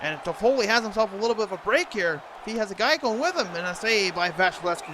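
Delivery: excited. Real, not acted. Breakaway chance, rising excitement.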